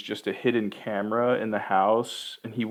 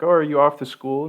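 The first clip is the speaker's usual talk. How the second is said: cheery dad voice; 5 semitones higher, 6 dB louder, faster than usual. Retold or imitated. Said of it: "the dad's like".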